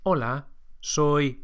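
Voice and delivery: slow, clear Spanish "Hola, soy"; Spanish model answer. Shown as a demonstration. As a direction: say "Hola, soy" slowly, each vowel pure. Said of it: "introduce yourself using your own name".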